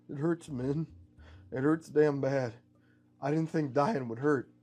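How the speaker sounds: mild tearful strain, halting; wounded man wryly admitting the pain; pained, dying. Acted. Terra Man tells Min dying hurts, pained.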